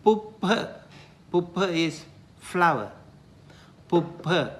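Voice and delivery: puppha said PUP-pha with an aspirated ph; Pali word. Shown as a demonstration. Teacher giving the Pali word for flower. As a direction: model puppha with a puff of air. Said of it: "For example".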